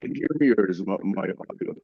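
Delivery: bad connection, muffled like underwater; muffled audio as if underwater; muffled underwater sound. Real, not acted. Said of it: "'Cause you sound like you're underwater again".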